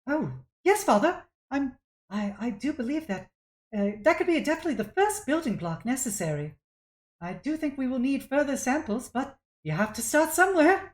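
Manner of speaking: put-on high-pitched, eager young scholar; compliant daughter. Reprogrammed daughter agreeing with her father, compliant. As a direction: agree brightly, pitched well up.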